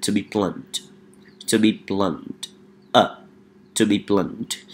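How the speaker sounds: to be blunt said softly, with a firm stop on the final t; to be blunt, repeated softly for the class. Shown as a demonstration. Teacher quietly repeats to be blunt for students. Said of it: "So we have the second one".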